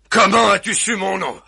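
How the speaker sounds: suspicious husband demanding an answer. Acted. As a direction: press her hard for the answer. Furax demands how she knew.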